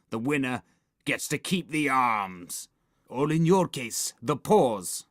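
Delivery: lightly voiced, haughty vampire; a touch of vampire disdain; sniffy vampire. A narrator's reading. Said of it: "sniffed the vampire".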